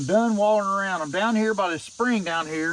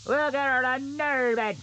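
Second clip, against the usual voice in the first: higher, put-on buddy voice, cheering himself on; sing-song encouragement in a silly higher voice; goofy pep-talk voice; 5 semitones higher, slower than usual. Logger cheering himself on at the steep hillside, goofy higher voice.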